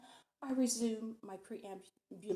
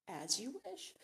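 mildly softened, higher-pitched assent; 4 semitones higher, 4 dB quieter, slower than usual. A narrator's reading. Matron accepts the guest's correction, softening a little. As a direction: give way with a touch of softness. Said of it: "Missus Roosevelt's voice softens".

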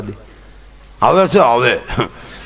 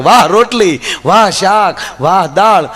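hearty praise; 3 semitones higher, 4 dB louder, slower than usual. Retold or imitated. A husband finally praises dinner loudly to please his wife. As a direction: belt out each compliment proudly. Third time, praise at full voice.

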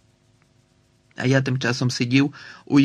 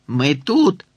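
yelling; 5 dB louder than usual. Acted. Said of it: "заволав я у телефон".

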